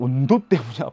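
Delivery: lightly sung-out catchphrase; catchphrase delivery. Acted. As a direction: toss out the pet catchphrase. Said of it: "버릇이 됐네. 유행어네". (유행어처럼 던지는 말투)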